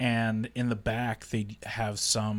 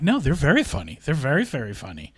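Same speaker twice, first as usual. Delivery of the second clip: quick, higher-pitched imitated protest; retold insistent protest; 3 semitones higher, 5 dB louder, faster than usual. Director answering the producer's talking-to, retold insistent protest. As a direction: rush out a defensive reply.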